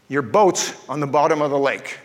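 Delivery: a hint of a divine voice speaking at dawn; voice of the Holy Spirit. The Holy Spirit waking him before dawn, lightly voiced and low. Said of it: "I felt like the Holy Spirit spoke to me".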